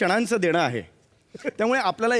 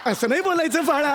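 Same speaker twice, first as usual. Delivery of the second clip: higher-pitched, forced-patient scolding; flustered hushing; 5 semitones higher than usual. Acted. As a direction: hush the child before they say more. Embarrassed father hushing his child.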